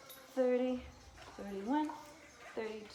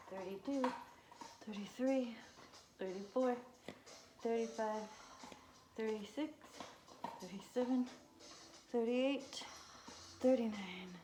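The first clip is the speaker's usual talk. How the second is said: doing sit-ups; 3 semitones higher than usual. Real, not acted. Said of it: "my abs are burning".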